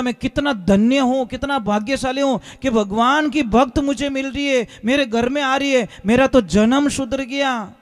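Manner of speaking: elated, fervent gratitude, words stretched at the end; overjoyed. Retold or imitated. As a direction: marvel at your blessed fortune. Groom rejoices at his devotee bride. (गदगद होकर, खुशी से)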